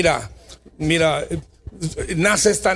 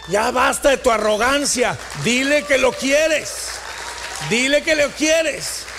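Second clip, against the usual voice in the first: voice of God; 5 semitones higher than usual. Acted. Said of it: "la voz de Dios diciéndote".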